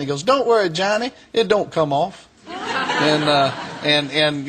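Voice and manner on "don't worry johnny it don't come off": lightly voiced reverend, pitched up; retold reverend's reassurance. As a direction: imitate him reassuring, a touch higher.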